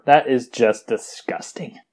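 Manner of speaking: slow disgusted whisper. Acted. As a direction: hush it out in mock disgust. Mock disgust, whispered aside.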